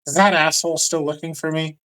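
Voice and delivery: scoffing about the Wanderer; Loki annoyed. Acted. Loki scoffing at news of the Wanderer. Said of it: "He's like".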